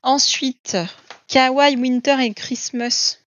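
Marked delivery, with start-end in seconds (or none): 1.3-3.2 slow, lightly put-on English accent on the title. Shown as a demonstration. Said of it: "Noterez l'accent".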